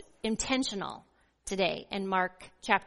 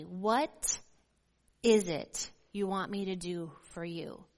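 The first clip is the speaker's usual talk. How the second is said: tender question; 3 semitones lower than usual. Shown as a demonstration. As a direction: ask it tenderly, as an invitation. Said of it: "this tender question".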